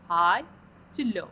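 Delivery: "High" loud with a lift, "to low" dropping back down; high to low glide. Shown as a demonstration. Teacher tracing the glide-down mark for students, high then low. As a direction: push "High" up hard, then let "low" fall. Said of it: "high pitch to the low pitch".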